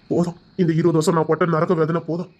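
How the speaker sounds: crying through the words; tearful. Acted. Husband telling wife of his pain, crying. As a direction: let the tears break through. Husband recalls twenty years' suffering.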